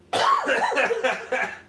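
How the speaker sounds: very high cackling burst; mocking cackle. Real, not acted. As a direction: cackle at the very idea. Laughing on at the naive taxpayers.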